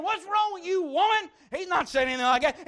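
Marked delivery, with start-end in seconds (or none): 0.0-1.3 mock scolding.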